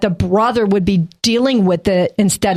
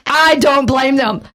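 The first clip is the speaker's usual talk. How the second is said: slow laughing remark; 5 semitones higher, slower than usual. Real, not acted. Laughing remark after laugh burst.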